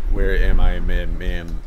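slow, stumbling over the words; stuttering. Real, not acted. Game player losing track of where they are, stuttering. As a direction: trip and stutter on the question. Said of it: "I'm stuttering".

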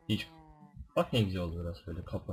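ordinary talk, nothing marked

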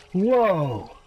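loud, high startled cry; shocked it was there all along. Real, not acted. Startled by something appearing.

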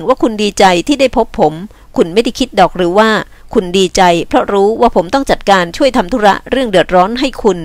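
lightly voiced, firm man; earnest reassuring man. Man assures woman he was glad, earnestly. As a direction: reassure her firmly and sincerely.

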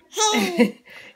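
high, loud burst of laughter. Real, not acted. Mom laughs at baby.

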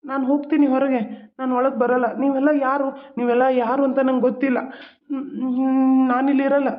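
a man who recognises no one, upset; confused agitation. Acted. Confused brother refuses to go in. (ಗೊಂದಲದ ಕಿರಿಕಿರಿ ಧ್ವನಿ)

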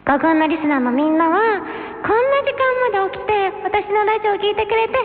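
sugary moe voice; high cute anime girl. Acted. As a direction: gush sweetly to listeners. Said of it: "萌え声姉妹は".

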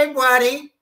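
high chummy white guy. Retold or imitated. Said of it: "trying to sound white".

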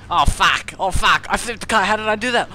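high, loud alarmed outburst; shocked. Real, not acted. Gamer reacting to flipping the car, shocked.

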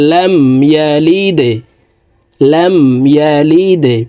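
ইয়ালিদে with a bounced দ; qalqala on dal. Shown as a demonstration. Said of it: "ধাক্কা দিয়ে উচ্চারণ করব". (কলকলা দিয়ে ইয়ালিদে)

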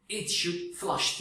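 slow, 'flash' mispronounced with an 'ah', like flush; yanlış telaffuz. Retold or imitated. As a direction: drag it out, saying 'flash' as 'flush'. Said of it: "flash kelimesi U'yla yazılıyor, yazılanı okuyormuşum". (yavaşça, 'flash' yerine 'flaş' diyerek)

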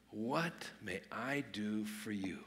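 slow, soft, half-whispered offer; gentle servant's question. Acted. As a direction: ask it slowly, almost in a whisper. Preacher voices the servant's question.

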